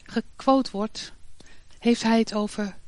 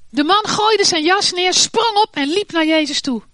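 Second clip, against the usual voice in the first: higher and louder, stressing gooide; excited narration; 6 semitones higher, 5 dB louder than usual. A narrator's reading. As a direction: tell it with rising excitement. Narrating the leap up. (opgewonden verteld, klem op gooide)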